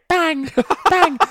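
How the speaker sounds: high, loud playful bang bang with a laugh; mock gunshot noises. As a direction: mimic a soldier pretending to shoot, laughing. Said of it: "he's going".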